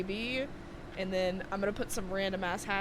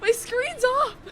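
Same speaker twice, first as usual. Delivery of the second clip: squeaky high voice; 11 semitones higher, 5 dB louder, slower than usual. Acted.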